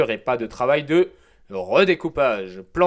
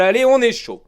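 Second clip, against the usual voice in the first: hyped-up; 10 semitones higher, 6 dB louder, faster than usual. Real, not acted. Pumped-up aside after puns.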